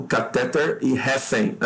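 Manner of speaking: "catéter" stressed on TÉ, "recém" on RÉ; wrong stresses read out. Shown as a demonstration. Teacher reading out the exam's mistake, caTÉter and RÉcem. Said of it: "Não é catéter".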